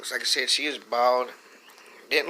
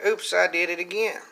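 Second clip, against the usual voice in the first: retold scream; 6 semitones higher than usual. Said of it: "the bitch starts screaming".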